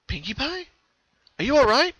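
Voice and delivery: put-on worried young pony; Twilight voice. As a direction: check gently on a friend.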